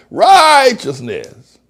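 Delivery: "Righteousness" very high and loud, hugely stretched at the start; emphatic catchphrase righteousness. Shown as a demonstration. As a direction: hold the RIGH of "Righteousness" long and high, then let it fall. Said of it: "I've promoted righteousness in such a way".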